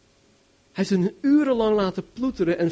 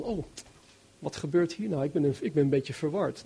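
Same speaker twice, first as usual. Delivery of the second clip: mock-timid, softly confused; softly, timidly puzzled; 6 dB quieter than usual. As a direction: murmur it like a shy, bewildered man. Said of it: "dat klinkt ook zo zachtjes, zo timide".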